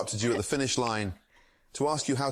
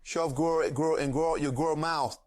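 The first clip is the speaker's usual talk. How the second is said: higher chef voice with a growled grr between words; chef growling grr; 4 semitones higher, slower than usual. Acted. Streamer voices the chef for a chat request, growling. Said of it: "Grr, after every few words".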